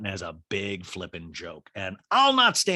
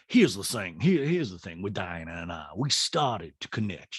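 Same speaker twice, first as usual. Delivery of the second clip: lightly voiced lower socialite; a hint of a mock hostess; Sutton; 5 semitones lower than usual. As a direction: imitate her pleading her case, pitched down. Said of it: "housewarming, Sutton goes".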